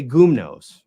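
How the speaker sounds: "gumnos" as GOOM-noze, first syllable hit; rejected pronunciation. Shown as a demonstration. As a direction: stress the front of "gumnos", long o after. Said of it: "we don't say".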